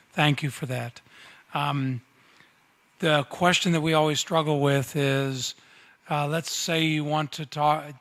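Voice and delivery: projecting loudly to the room. Real, not acted. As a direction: raise the voice so everyone hears. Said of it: "I'll use my loud voice".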